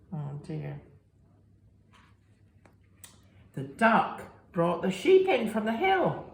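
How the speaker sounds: lively storybook reading voice; reading to children. A narrator's reading. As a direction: read it to little ones with big expression. Reading picture book to children.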